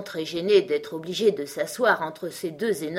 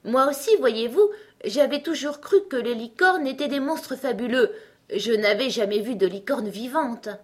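higher, lively voice with a smile; smiling Alice; 6 semitones higher, 4 dB louder than usual. A narrator's reading. Alice replying to the unicorn, smiling. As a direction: answer brightly through a smile. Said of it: "ne put s'empêcher de sourire tout en disant".

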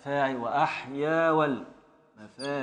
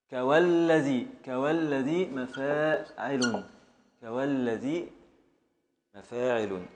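slow syllable-by-syllable. Shown as a demonstration. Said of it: "slow scansion of foot".

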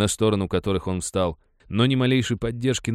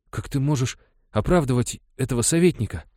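put-on higher, earnest boy's challenge; young miner boy questioning his mentor; 6 semitones higher, 3 dB louder than usual. A narrator's reading. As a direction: ask it like a hurt young lad. Boy Vahitika speaks up.

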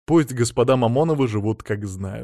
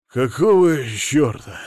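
slow rasped curse; hoarse slow curse from the millionaire; 2 semitones higher, 5 dB louder, much slower than usual. Acted. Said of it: "хрипло сказал Мамонов".

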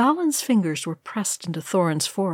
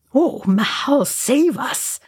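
high, fearful plea; faltering; 7 semitones higher, slower than usual. A narrator's reading. Balin sees the billowing cloud coming, faltering in fear. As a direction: falter out a prayer for rescue. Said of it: "Balin faltered".

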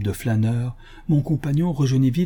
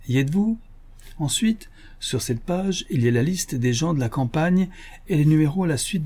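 lively, higher-pitched challenge; lightly voiced poultry dealer; 6 semitones higher than usual. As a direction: put a touch of triumph into the dealer. Narrator voices the bragging poultry dealer.

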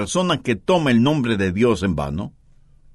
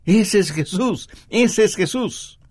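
higher, slow mock retort, repeated insistently; emphatic retort; 5 semitones higher than usual. Strongman shaking the scared man, acted emphatic retort. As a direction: act out a strongman driving each word home. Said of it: "Pablo, sacudiéndole, le dijo".

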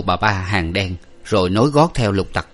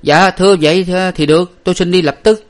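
put-on higher, louder eager servant boy; 10 semitones higher, 6 dB louder than usual. A narrator's reading. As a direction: jump at the errand like a keen lad. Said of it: "cậu nói".

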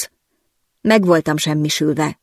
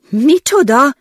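much higher shocked cry; stunned; 8 semitones higher, 4 dB louder, slower than usual. Acted. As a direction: blurt it in disbelief. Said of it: "kérdeztem döbbenten". (döbbenten felkiáltva)

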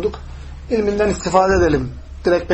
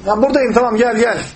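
higher, mild mock shout; calling back; 4 semitones higher than usual. Prophet telling the Bedouin he is here, raised calling voice. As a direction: imitate hailing someone over. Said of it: "Bağırıyor Aleyhisselam".

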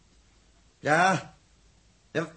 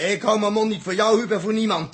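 louder, defiant snapback; defiant retort; 5 dB louder than usual. Acted. Dirk hits back at Huub, louder and defiant. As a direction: throw it back in his face. Dirk defies accusing crew.

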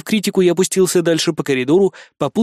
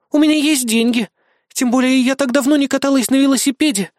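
dreamy; 9 semitones higher than usual. Acted. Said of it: "мечтательно вздохнула напарница".

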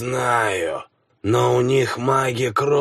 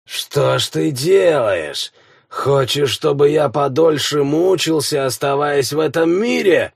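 rasping strained mutant; 4 semitones higher than usual. Acted. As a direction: rasp it out, stronger now. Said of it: "прохрипел ... гораздо увереннее".

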